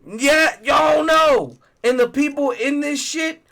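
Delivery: loud, high excited shout. Real, not acted. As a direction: yell it out with excitement. Insisting to friend on show.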